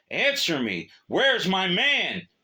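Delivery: loud, high, slow furious shout; angry demand. Acted. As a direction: demand an answer with rage. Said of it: "he demanded".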